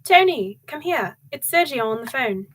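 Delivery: high, loud call to the next room; mother calling her husband to the phone. Acted. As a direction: call Tony over from across the house. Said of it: "she called out".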